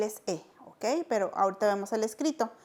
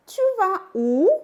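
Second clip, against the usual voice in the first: familiar form; 9 semitones higher, 7 dB louder than usual. Shown as a demonstration. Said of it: "familiar question form".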